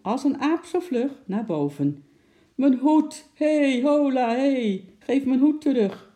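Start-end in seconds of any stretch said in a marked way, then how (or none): 2.5-6.1 high, loud clown's shout; raised, urgent cry; calling out. A narrator's reading. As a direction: shout indignantly for the hat back. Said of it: "riep de clown".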